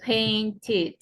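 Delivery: painted said ending in an extra syllable ID; teacher models painted with the ID ending; demo pronunciation. Shown as a demonstration. Teacher demos past tense for students, painted ending ID. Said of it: "entonces el pasado va a sonar".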